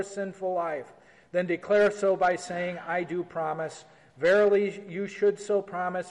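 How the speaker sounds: measured, solemn reading of the rite; formal liturgical reading. Acted. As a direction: read it like a pastor at the altar. Reads confession rite aloud.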